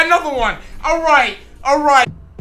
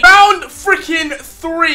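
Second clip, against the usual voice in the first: stretched out slowly; slower than usual. Real, not acted. Announcing the round, slow and drawn out. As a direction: drag each word out. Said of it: "That is a mouth twister".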